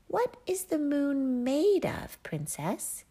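high, bouncy jester voice, eager to help; a playful fool bounding in; the court jester. A narrator's reading. Jester asks the princess.

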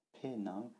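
"Penang" with "Pe" slightly drawn out; lengthened Pe. Shown as a demonstration. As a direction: hold "Pe" a little longer in "Penang". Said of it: "un P un peu plus allongé".

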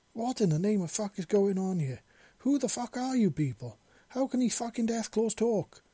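high, loud panicked questions; wailing. Acted. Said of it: "the new guy wailed".

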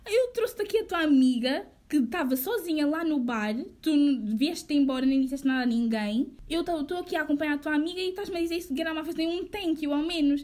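retold heated protest; indignant, pushing through the complaint; indignant telling-off. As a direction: scold him for his ingratitude. Retells her indignant telling-off.

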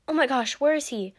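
high, loud, eager question; excited cry. A narrator's reading. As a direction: demand it with breathless-sounding excitement. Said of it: "she cried".

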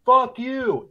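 high, loud mock yell; retold yell. Homeless guy yelling at the teacher, imitated angry shout. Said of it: "you just hear the guy yell".

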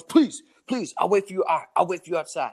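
high mock plea, easing down in pitch; starts high and pleading, then settles; pleading beggar. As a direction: imitate an insistent panhandler begging. Imitates beggar pleading, pestering.

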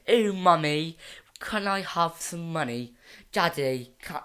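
put-on posh south Dublin child asking parents; put-on posh Dublin accent; posh Fox Rock accent. Shown as a demonstration.

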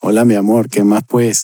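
a playful hint of a Paisa accent; sweet-talking in a mild Paisa accent. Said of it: "con el acento paisa".

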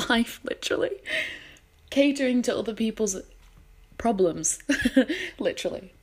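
holding back tears; fighting tears with a shaky laugh; shaky sigh. Real, not acted. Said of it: "I'm trying not to cry".

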